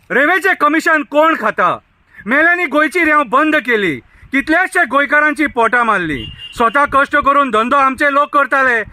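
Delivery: measured protest-poem recitation, line by line. Acted. Villager addressing Goa's ministers over the sand ban, poem recitation. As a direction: recite it as verse, each line falling at the end.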